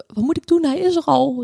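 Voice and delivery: high-pitched, urgent cry for help; panicked call. Retold or imitated. New mother calling the midwife right after birth at home, panicked high cry. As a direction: blurt it out in a rush of panic. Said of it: "riep ik".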